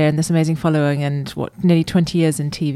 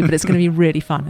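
nervous laugh; faster than usual. Real, not acted. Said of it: "that sound like nervous laughter again".

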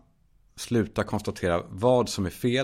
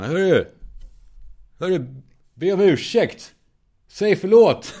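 furious shout, much higher and louder; pretend yelling at driver; 9 semitones higher, 8 dB louder than usual. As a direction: yell at the driver to apologise, half laughing. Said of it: "det är inte så att jag skriker mot bilisten".

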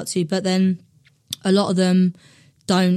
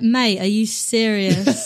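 laughing disbelief; much slower than usual. Retold or imitated. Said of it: "And I'm like".

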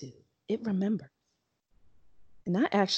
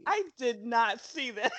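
laughing; 4 semitones higher than usual. Real, not acted. Cracking up over the text.

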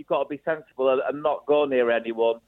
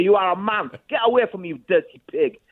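raised-pitch indignant insult, lightly hammed up; mock outrage; 5 semitones higher than usual. Man in an acted row with a garden fox, mock-outraged. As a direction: scold an intruder in mock disgust.

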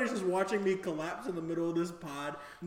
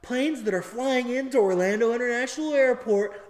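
mock a chirpy theme-park recording; ride narration; 4 semitones higher, 8 dB louder than usual. Recorded narrator informing riders of the height, high sing-out delivery. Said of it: "There's narration talking about".

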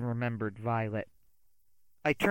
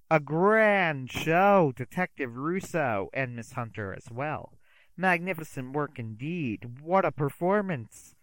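grand, slow showman voice; theatrical magician; 3 semitones higher, 4 dB louder than usual. Acted. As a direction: sweep the words out like a stage magician. Magician greets the detective.

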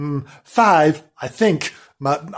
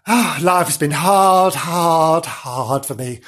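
mock-tragic lament; slower than usual. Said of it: "I'm an emotional wreck".

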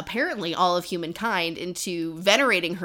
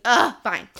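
exasperated, higher mock groan; grudging surrender; 4 semitones higher, 6 dB louder than usual. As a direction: give in with a put-upon huff. Retold grudging agreement.

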